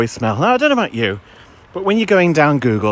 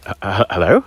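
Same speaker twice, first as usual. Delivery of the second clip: hesitant stammer; 4 semitones lower than usual. Retold or imitated. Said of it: "I said, I said".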